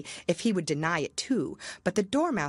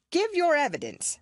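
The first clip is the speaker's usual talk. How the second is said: commanding king; 12 semitones higher than usual. Acted. King voiced.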